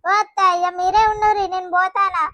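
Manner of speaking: fed-up wife snapping at her in-laws; angry outburst. Acted. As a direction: throw it at her and walk out. Wife storms off in quarrel.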